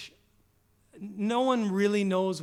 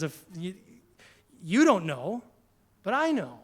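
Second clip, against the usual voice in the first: voice of God; 7 dB louder than usual. Acted. God answering Job, rising.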